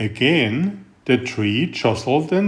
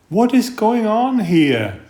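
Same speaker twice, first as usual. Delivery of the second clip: high, bright owlet voice, wide-eyed; curious little owl; 8 semitones higher than usual. Acted. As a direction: ask like a small curious bird. Curious young owl asks friends.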